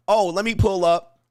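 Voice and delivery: mock flustered streamer. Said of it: "I don't have to stop and say".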